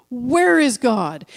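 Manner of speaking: slow, stretched mock demand; a touch of insistence, each word drawn out; lightly voiced stern pastor. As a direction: play the pastor pressing his question. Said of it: "the pastor points to him for the third time".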